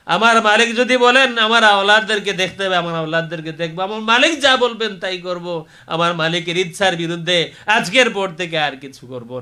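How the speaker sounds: impassioned pledge to the congregation; fervent preaching. Real, not acted. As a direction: press each vow with rising fervour. Preaches, vowing submission.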